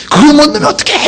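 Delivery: high-pitched exasperated complaint; mock blaming. Soccer player blaming a teammate. (남 탓하는 높은 목소리 흉내)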